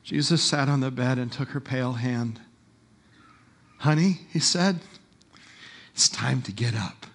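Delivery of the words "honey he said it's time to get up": tender wake-up. Acted. Jesus gently waking the dead girl, tender. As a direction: coax a sleeping child awake.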